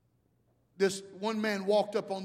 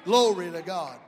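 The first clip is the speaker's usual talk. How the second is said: preacher's praise; 9 dB louder than usual. Real, not acted. Praise closing the shouted run.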